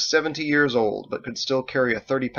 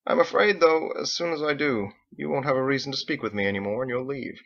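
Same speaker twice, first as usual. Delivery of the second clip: lightly voiced older father, a touch wistful; a hint of a fond, worried father; father's voice, wistful; 4 semitones higher than usual. Father telling his son he will leave, lightly voiced.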